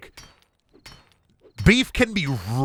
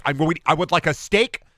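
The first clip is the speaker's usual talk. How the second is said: mock steak guy; 5 semitones higher than usual. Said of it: "And then be like".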